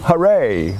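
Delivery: a cheerful cry of hooray; mildly cheering along with the others; read-aloud hooray; called out. A narrator's reading. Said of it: "called out".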